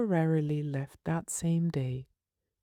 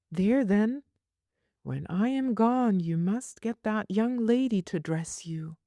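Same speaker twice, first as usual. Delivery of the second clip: a touch of a fond, scolding nurse, a little higher; lightly voiced nurse; 6 semitones higher than usual. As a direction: play the nurse, mildly exasperated.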